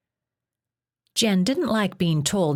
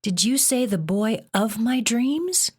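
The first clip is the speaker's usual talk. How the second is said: gasping; 6 semitones higher than usual. Acted. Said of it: "she gasped".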